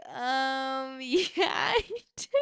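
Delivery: giggling, pitch jumping up as she admits it; laughing. Retold or imitated. Caught by the wrong guy on the phone, laughing it off. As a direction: laugh through the embarrassed confession. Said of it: "And I'm just laughing".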